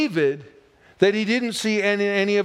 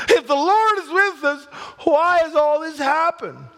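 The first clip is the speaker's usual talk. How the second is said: whiny lament; 5 semitones higher than usual. Retold or imitated. Preacher acting Gideon's lament.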